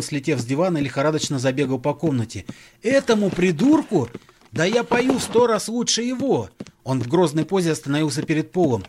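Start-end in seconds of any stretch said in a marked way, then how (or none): 2.8-6.5 furious. Acted. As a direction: rage at the insult. John furious at Paul.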